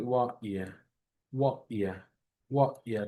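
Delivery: ওয়া ইয়া repeated clearly; wa ya drill. Shown as a demonstration. Teacher drilling the W and Y sounds. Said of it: "দুটো মাথায় রাখবেন".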